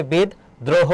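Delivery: বিদ্রোহ slowly as "bid - droho", with doubled d; split-syllable pronunciation. Shown as a demonstration. Teacher giving the correct answer, split-syllable pronunciation. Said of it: "সঠিক উত্তর হবে".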